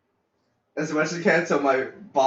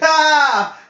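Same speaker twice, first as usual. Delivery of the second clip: startled cry; 13 semitones higher, 10 dB louder than usual. Retold or imitated. Disgust at neighbor story.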